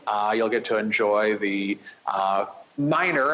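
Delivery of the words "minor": "minor" set apart and drawn out; stress on minor. Real, not acted. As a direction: lean slowly on the word "minor". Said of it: "I wanna emphasize the word minor".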